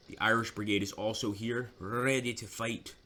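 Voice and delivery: put-on an Irish accent that drifts into Scottish; game commentator voicing the Irish Brigade in a slipping Irish accent; attempted Irish accent. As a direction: try for an Irish brogue, land on a Scottish burr. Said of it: "Why do I always do a Scottish accent when I try to do an Irish one".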